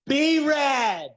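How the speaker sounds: loud, high shout of his name; thrilled fan calling out a celebrity's name; excited recognition. Retold or imitated. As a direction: call out the name like spotting a star. Dancer recognizing him excitedly.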